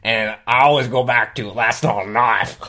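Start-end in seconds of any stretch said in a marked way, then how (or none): 1.5-2.6 slow, drawn-out Australian accent; Australian accent catchphrase. Shown as a demonstration. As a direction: lean slowly into an Australian accent. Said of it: "I'll lose my accent".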